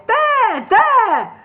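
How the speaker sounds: very high, loud exclamation; excited. A narrator's reading. Gandalf crying out at the door, high and loud. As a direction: point and cry out with glee.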